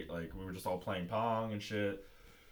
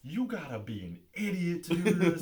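higher-pitched scolding imitation; hammed-up exasperated telling-off; mock angry guard; 8 semitones higher, 3 dB louder than usual. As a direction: act out the security boss berating you. Imitating angry security director.

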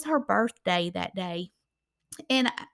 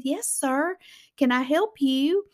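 polite Southern lady; 4 semitones higher than usual. Retold or imitated. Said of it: "like a Southern lady would do".

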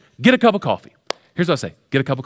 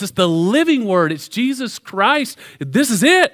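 building fervent preaching; 4 semitones higher than usual. Real, not acted.

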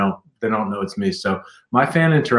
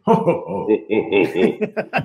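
Santa laugh; 3 semitones lower, much slower than usual. Pretend. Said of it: "voice of Santa Claus".

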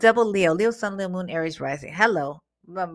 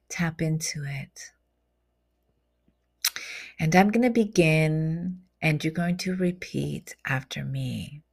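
guided meditation; slower than usual. Acted. Guiding listeners to imagine protective golden light, soothing meditation voice. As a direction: lead them gently through the imagery.

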